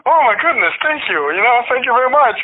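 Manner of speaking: high-pitched, flustered gratitude; imitating himself thrilled by praise; flattered, blushing thanks. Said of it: "Blushing on the inside".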